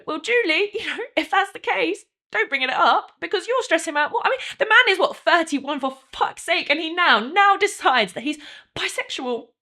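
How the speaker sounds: loud, high-pitched, exasperated rant; exploding in anger. Acted. Wife's rant, then says she exploded.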